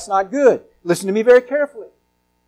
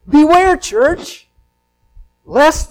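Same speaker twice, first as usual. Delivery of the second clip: warning call; 6 semitones higher, 4 dB louder, much slower than usual. Real, not acted. Preacher warning the church.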